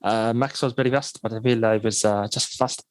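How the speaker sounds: loose attempt at a Mexican accent; Sergio Perez. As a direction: imitate a driver in a halting Mexican accent. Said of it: "I was trying to do Mexican".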